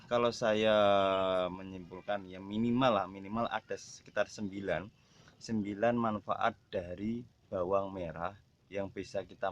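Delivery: talking around a cigarette; cigarette in mouth. Real, not acted. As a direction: speak while smoking a cigarette. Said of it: "sambil merokok".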